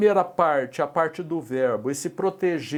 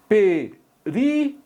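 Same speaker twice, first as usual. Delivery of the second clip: slow, drawn-out example word; 5 semitones higher, 4 dB louder, much slower than usual. Shown as a demonstration. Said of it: "teacher reads example word slowly".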